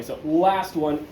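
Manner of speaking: last one stretched out slowly; presenter teasing the finale, slow and drawn out. Shown as a demonstration. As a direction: savour each word slowly. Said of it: "don't worry".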